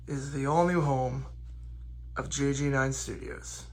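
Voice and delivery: recorded on a phone mic; lo-fi phone recording, room echo; phone audio. Real, not acted. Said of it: "apologies for the change in audio quality here, 'cause now I'm doing this on my phone".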